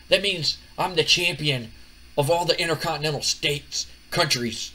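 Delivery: lightly voiced boastful wrestler promo; cocky Chris Jericho. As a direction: retell a self-important brag, punching phrases between pauses. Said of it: "he's so full of himself".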